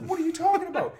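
high loud playing dumb; mock innocent protest. Kid denying to the driver, loud high protest. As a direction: protest loudly like a caught kid.

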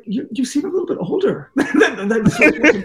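laughing through a cheeky remark, pitch up. Retold or imitated. Teasing the swat guy about his age, laughing.

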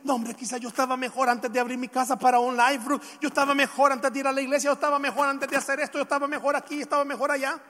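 quick, repetitive litany of regrets; acted-out grumbling, item after item; imagined complaining. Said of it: "donde usted mismo dice".

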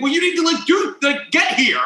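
mild imitation of yelling into a phone; mock yell. Uptight man ordering police over, mock yelling. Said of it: "the man is yelling into the micro".

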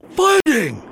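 loud, high fight announcer cry; UFC announcer call. Retold or imitated. Host imitating the UFC ring announcer, loud. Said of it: "I wish all wrestling events were called like".

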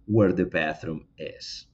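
slow correct word order, where the bathroom is; slow model answer for the students; slow, careful correct version. Shown as a demonstration. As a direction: spell out "where the bathroom is" slowly, each word clear. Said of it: "No, aquí debo decir".

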